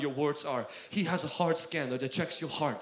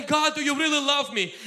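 higher, anxious questioning plea; doubting prayer; 8 semitones higher, 5 dB louder than usual. Pretend. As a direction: ask it with hurt doubt. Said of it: "desperation will say".

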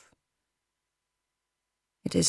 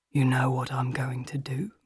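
low, soft otherworldly villain; muffled, hollow menace; 5 semitones lower, 6 dB quieter than usual. A narrator's reading. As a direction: murmur low and breathily, like a masked predator. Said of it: "His voice is muffled as he speaks, hollow and otherworldly".

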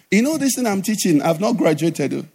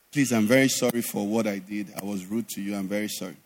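low, soft apology; imitating a contrite man saying sorry; retold remorseful apology; 11 semitones lower, 9 dB quieter than usual. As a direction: apologise quietly, pitched well down. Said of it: "he felt bad".

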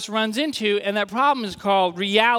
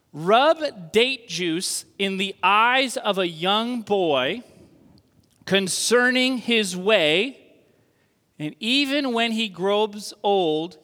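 slow literal reading; slower than usual. Acted. Preacher reads the literal Hebrew translation to the church, slow and deliberate. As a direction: read it word by word, slowly.

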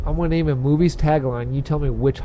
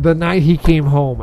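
horror trailer voice; 3 semitones higher, 6 dB louder than usual. Acted. Reading movie tagline.

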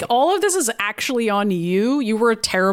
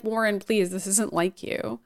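quiet, slowing plea that fades softer; soft pleading; 6 dB quieter than usual. Retold or imitated. Storm softly pleading with Warren to stop, quiet plea. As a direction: gently beg him to stop, trailing off.

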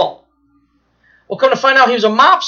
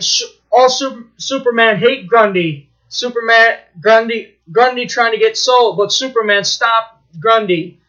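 lightly voiced brute; 3 semitones higher than usual. Storyteller voices Grundy, lumbering broken speech, hurt. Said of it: "He's like".

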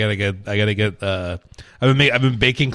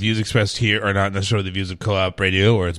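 disclaimer read; 4 semitones lower than usual. Shown as a demonstration. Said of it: "No, what was that?".

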